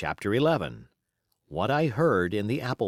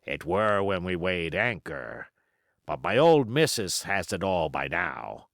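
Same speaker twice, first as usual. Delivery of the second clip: put-on old pirate. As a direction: spin yarns like a scheming old pirate. Silver's pirate voice.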